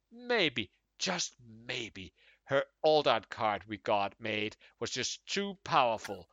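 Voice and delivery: indignant, rising rant; building outrage. Acted. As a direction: read it as a growing grievance. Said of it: "I worked up to the angry man there".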